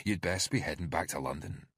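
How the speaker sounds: lightly voiced Scottish thug; a hint of Scottish menace; Scottish thug warning the detective off, light Scottish accent. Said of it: "His accent was Scottish".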